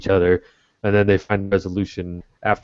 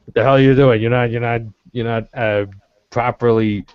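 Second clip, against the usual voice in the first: a hammed-up Southern American pony yelling; terrible Southern accent; 4 semitones higher, 4 dB louder than usual. Pony scolding a shop owner in a mock Southern accent. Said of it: "That was the most terrible Southern accent I've ever heard".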